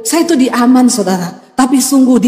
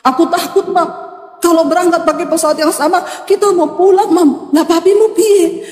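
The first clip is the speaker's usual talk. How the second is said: voicing her crying child; 3 semitones higher than usual. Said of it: "anak saya kirim foto".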